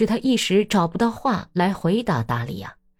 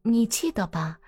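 put-on lightly raised, gossipy young woman; Daria's voice; 6 semitones higher than usual. Daria letting slip the husband's lie to Natalya, gossiping. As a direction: tell her the secret with sly relish.

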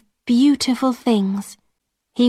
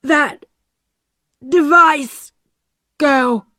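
slow; 4 semitones higher, 4 dB louder, slower than usual. A narrator's reading. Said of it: "John Law said slowly".

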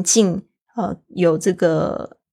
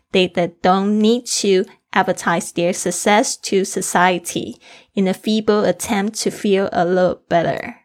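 model reading. Shown as a demonstration. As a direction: read it through once for the class to follow. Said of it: "最后我再念一次". (示范朗读，慢一点，注意换气)

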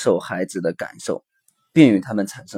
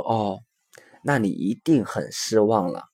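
softer, understanding parental response; empathetic; 4 dB quieter than usual. Acted. Father to disappointed child after cancelled picnic, gentle empathy. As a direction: reflect the feeling back quietly, with sympathy. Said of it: "你看这共情啊".

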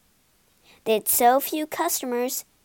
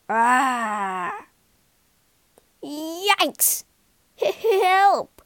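terrified cries; 3 semitones higher, 5 dB louder, much slower than usual. A narrator's reading. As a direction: squeal in fright. Bullies terrified by ghost.

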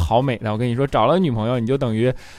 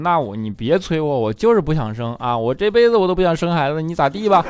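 rebellious; 4 semitones higher, 3 dB louder than usual. Retold or imitated. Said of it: "孝钦当时就上来叛逆了嘛".

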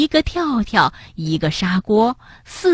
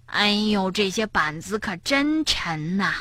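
softer, effortful groan of words; straining; 8 dB quieter than usual. A narrator's reading. Tiaotiao hauling heavy boards, straining. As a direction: talk through mild heavy-lifting effort. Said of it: "跳跳累得吭哧吭哧的".

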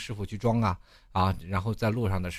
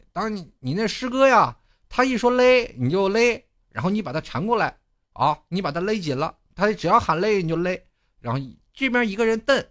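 master's loud instructions; 10 semitones higher, 7 dB louder than usual. Retold or imitated. Master shouting rope instructions to the new apprentice, high and loud. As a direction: bellow the master's orders across the truck. Master explains loudly, quoted.

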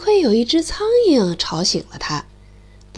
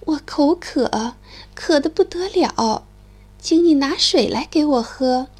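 sighing; 2 semitones higher than usual. Acted. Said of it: "亚麻唉声叹气地说".

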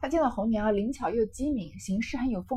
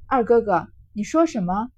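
suddenly stern and louder; sharp angry retort; 7 dB louder than usual. Acted. Girl confronting Baoyu, snapping in anger. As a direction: snap at him, offended. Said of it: "林黛玉登时撂下脸来".

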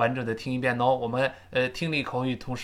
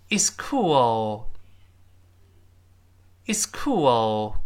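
whisper; 2 semitones lower, much slower than usual. Acted. The answer is whispered.

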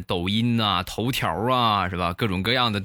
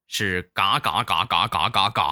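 quacking syllables; 3 semitones lower than usual. Shown as a demonstration. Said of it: "口令是什么呢".

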